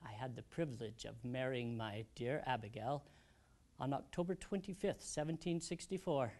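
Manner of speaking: soft, halting, sorrowful recollection; subdued grief. Acted. Old widower recounting his family's deaths, subdued grief. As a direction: recall painful losses softly, with long pauses. Recalls wife's and daughter's illness, death.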